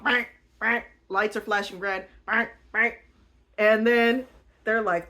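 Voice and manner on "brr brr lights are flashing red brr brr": alarm imitation. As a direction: make the alarm sound again. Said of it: "alarms are going off".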